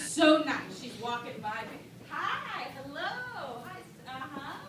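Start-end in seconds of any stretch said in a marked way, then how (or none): 2.1-4.6 breezy celebrity greeting. Retold or imitated.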